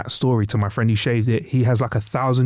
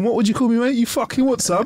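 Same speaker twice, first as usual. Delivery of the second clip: mock aggro; 9 semitones higher than usual. Mock aggressive challenge.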